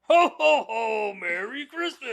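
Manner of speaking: high, slow, laughing Santa ho ho ho; hammed-up Santa with a laugh; Santa Claus voice. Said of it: "The Santa Claus voice".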